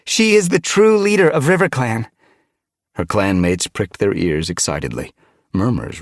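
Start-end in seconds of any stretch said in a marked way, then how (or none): 0.0-2.1 raised, high announcing voice; unhesitating declaration. A narrator's reading. Frost Dawn reassures the gathered clan, unhesitating. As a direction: declare it firmly to everyone. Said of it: "Frost Dawn didn't hesitate".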